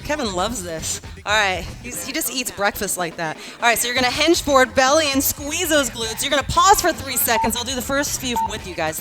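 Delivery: lively fitness coach cueing class; aerobics instructor. Acted. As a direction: coach the class, upbeat and encouraging. Leads workout class.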